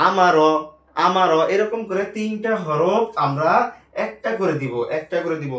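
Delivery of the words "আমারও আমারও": আমারও said louder as one blended word; teacher modelling আমারও, louder; blended reading. Shown as a demonstration. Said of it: "র জবর র".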